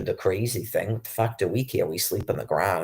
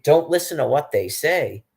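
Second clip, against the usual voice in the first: louder and higher, throwing the words back; indignant repeat; 6 semitones higher, 4 dB louder than usual. Real, not acted. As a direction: repeat it in outraged disbelief. Repeating the guard's words in outrage.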